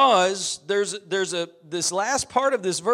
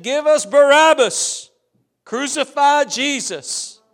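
loud, higher cry of the mob; hammed-up angry mob cry; mock crowd shout; 5 semitones higher, 5 dB louder than usual. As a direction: shout it like the crowd demanding blood. Crowd's cry voiced in sermon.

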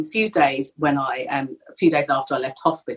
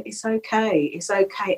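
soft, higher-pitched soothing; consoling a caller in a softer voice; retold reassurance; 4 semitones higher, 3 dB quieter than usual. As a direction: gently hush someone upset.

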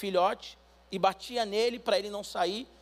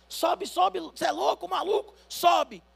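higher, louder insistent yelling; pleading with him to climb aboard, higher; urgent firefighter shout; 9 semitones higher, 4 dB louder, slower than usual. Acted. Firefighter begging the man to climb aboard, urgent higher shout.

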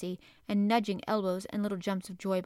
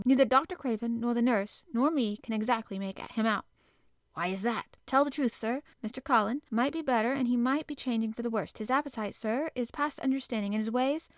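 flustered housekeeper; 2 semitones higher, 4 dB louder than usual. Acted. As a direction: gush it out to the master, anxious to explain. Medlock voiced throughout.

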